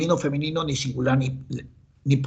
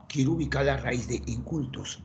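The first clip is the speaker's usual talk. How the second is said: much softer echo of the task; soft repeat; 6 dB quieter than usual. Shown as a demonstration. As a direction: repeat it quietly to yourself. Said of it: "repeats the task".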